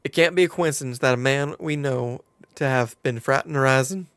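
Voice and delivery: put-on storytelling in a light southern accent. Quest-giver explains the stolen crown to adventurer, southern accent. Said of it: "Now can I escape the southern accent".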